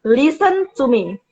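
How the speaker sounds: slow, even words with firm emphasis; calm but firm. Shown as a demonstration. Teacher to a tantruming child, slow and firm. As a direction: talk slowly and steadily so the child has to listen. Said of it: "tapi ada penekanan di situ".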